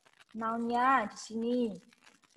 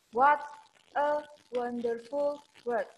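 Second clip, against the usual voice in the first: gliding, linked words; slower than usual. Shown as a demonstration. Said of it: "say the words in a gliding form".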